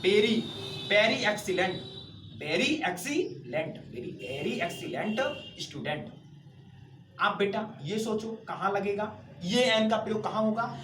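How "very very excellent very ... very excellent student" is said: slow dictation. Shown as a demonstration. Teacher building example phrase.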